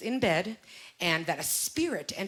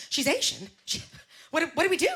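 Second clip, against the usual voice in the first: higher-pitched, halting mock worry; nervous mother; 7 semitones higher than usual. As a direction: imitate a mom stammering in a mild panic. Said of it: "She gets all nervous. She's like".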